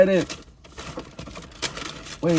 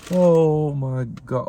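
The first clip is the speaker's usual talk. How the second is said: slow, drawn-out awe; awed; much slower than usual. Real, not acted. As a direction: savor each word slowly. Delighted at the burger.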